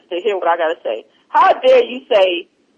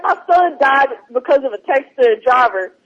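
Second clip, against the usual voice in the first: his solemn tone; 4 semitones higher than usual. Retold or imitated. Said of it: "if y'all could have heard his tone".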